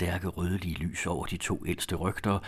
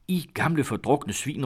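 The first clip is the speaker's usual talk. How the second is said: mildly shouted, pitched-up outburst; indignant shout; 7 semitones higher than usual. A narrator's reading. Milkmaid scolding the old groom as drunk, indignant shout. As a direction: call out the insult in a higher, lightly indignant voice. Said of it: "råbte Maren".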